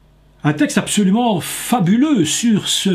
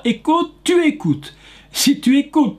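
Écoute doubled, both higher and stressed; 7 semitones higher than usual. Shown as a demonstration. Preacher showing the Hebrew doubling of écoute, stressed. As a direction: hammer the repeated écoute. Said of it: "on dit deux fois".

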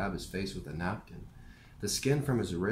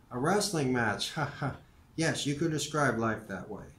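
amused chuckle; 4 semitones higher than usual. Acted. Morrie amused.

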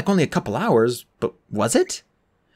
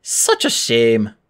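slow, lower-pitched regret; sincere regret; 4 semitones lower, much slower than usual. A narrator's reading. Bellhop sees the guests leaving, sincerely regretful. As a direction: say it slowly, as if truly sorry. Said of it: "he really meant it".

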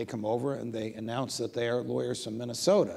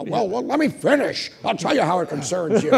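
higher and louder, through laughter; laughing insistence; 8 semitones higher, 9 dB louder than usual. Retold or imitated. Scalia telling the judge to let him finish, laughing. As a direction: hold the floor, amused.

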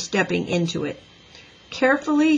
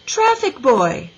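louder, higher, stretched-out hail; calling out; 5 semitones higher, 5 dB louder, slower than usual. A narrator's reading. Teacher summons the traffic boy, calling out. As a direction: call slowly over a distance. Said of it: "Miss Binny called out".

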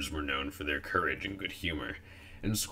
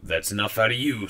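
loud, raised-pitch telling-off; scolding; 5 semitones higher, 7 dB louder than usual. Acted. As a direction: shut the youngster up firmly. Apple scolds the interrupting youngster.

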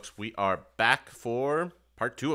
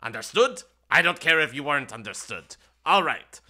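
loud, pompous imp laying down rules; 3 dB louder than usual. Acted. Imp explaining the labyrinth rules to players, pompous. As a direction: lecture them like a smug demon.

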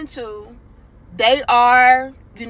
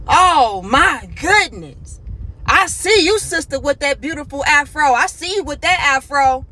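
shouting praise; 4 semitones higher than usual. Retold or imitated. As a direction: call out to her across the store. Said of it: "This brother is just shouting".

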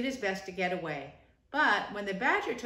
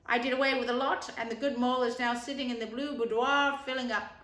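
rat voice; 3 semitones higher than usual. Acted. Rat tells Badger about the invitations, brisk. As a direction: chatter it like a busy friend.

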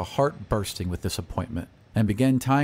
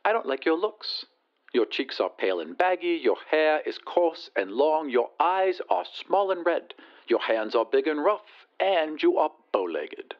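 high, haughty lady on the telephone; disdainful lady, pitched well up; haughty rich lady; 6 semitones higher than usual. Acted. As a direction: put on a high lady's voice down the line.

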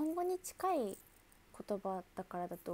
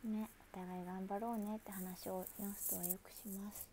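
whisper; 6 dB quieter than usual. Real, not acted. Whispered aside to viewers.

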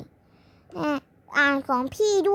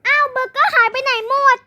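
higher, louder shocked cry; shocked mother; 10 semitones higher, 9 dB louder than usual. Acted. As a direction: gasp it, burger vanished. Mother finds burger gone. (แม่ตกใจร้องเสียงสูงดัง)

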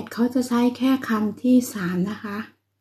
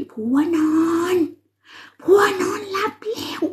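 whisper; 8 semitones higher than usual. Real, not acted. Husband asleep, she whispers.

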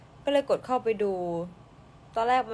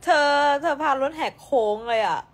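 higher and louder, playfully scolding; excited teasing exclaim; 6 semitones higher, 9 dB louder than usual. Real, not acted. Teasing a friend on live stream, loud excited exclaim. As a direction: yelp it out like a friend caught off guard.

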